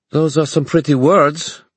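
a skeptical werewolf brushing off fine words. Acted. French werewolf answers Julian in council.

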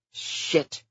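breathy whispered swear; whispered curse. Acted. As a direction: hiss it under the breath. Bad news over the radio.

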